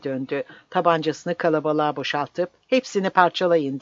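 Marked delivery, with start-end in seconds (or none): 2.7-3.8 roaring. Acted. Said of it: "diye kükredi".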